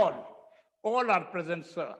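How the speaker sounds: All, all are present with an o sound; roll-call "all are present, sir" said with o; common o pronunciation. Shown as a demonstration. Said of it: "यानी ओ से बोलते हैं". (ओ से बोला All)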